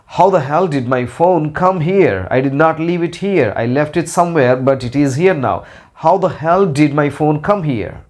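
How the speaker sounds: teacher acting out confusion over a misplaced phone; puzzled annoyance. Shown as a demonstration. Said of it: "to show anger and annoyance".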